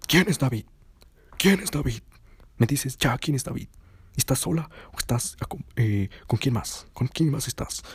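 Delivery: high, pushy jealous questioning; jealous demand. Retold or imitated. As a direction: grill her about who David is.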